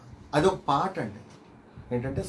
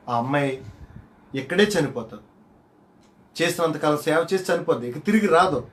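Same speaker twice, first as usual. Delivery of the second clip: loud letter read; 3 semitones higher, 6 dB louder than usual. Retold or imitated. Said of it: "వాళ్ళ అమ్మగారికి ఒక letter రాశారు".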